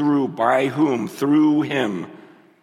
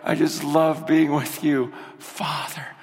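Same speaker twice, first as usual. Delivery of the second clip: tender prayer. Retold or imitated.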